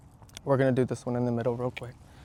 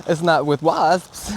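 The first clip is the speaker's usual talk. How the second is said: slow, louder stress on wasps; emphatic; 3 semitones higher, 9 dB louder, slower than usual. Real, not acted. Beekeeper vlogger insists, stressing wasps. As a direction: lean hard on wasps. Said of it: "the wasps I do not trust".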